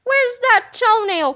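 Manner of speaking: high, loud, drawn-out demand; crying out. Acted. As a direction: cry it out slowly and urgently. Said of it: "cried Melvin".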